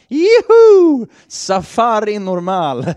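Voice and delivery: high, loud whoop of joy; gleeful shout. Retold or imitated. Jeep driver whooping over a sand dune, gleeful shout. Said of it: "så ropade han bara".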